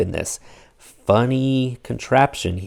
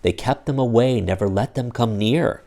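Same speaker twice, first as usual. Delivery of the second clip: lively read-aloud storybook voice; animated picture-book reading; story narration. A narrator's reading. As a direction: read it like bedtime for kids. Reads Dr. Seuss aloud to children.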